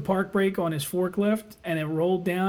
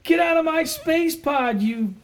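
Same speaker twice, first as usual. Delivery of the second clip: movie quote; 6 semitones higher, much slower than usual. Retold or imitated. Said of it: "That's what he called him".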